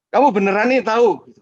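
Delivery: high, loud startled question; the driver shaken by the boy. Retold or imitated. Driver to boy, high startled disbelief.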